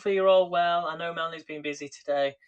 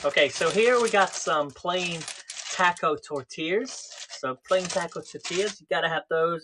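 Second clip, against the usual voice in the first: lightly put-on American accent, a touch louder; half-hearted Trump-style American accent; a hint of a Donald Trump American accent; Donald Trump impression; 2 semitones higher, 3 dB louder than usual. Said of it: "I don't know why I sound like Donald Trump".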